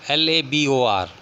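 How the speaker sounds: letters spaced out slowly; teacher spelling a word slowly for students. Shown as a demonstration. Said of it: "American English में है लेबर".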